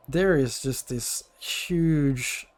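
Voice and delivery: slow game-master narration; scene setting. Acted. Game master showing players a torn-up owlbear, slow scene setting. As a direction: describe it slowly and evenly.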